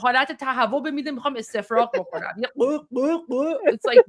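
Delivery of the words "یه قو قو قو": lightly imitated throaty Arabic sound; mock guttural sound. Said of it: "از گلوشون داره میاد بیرون".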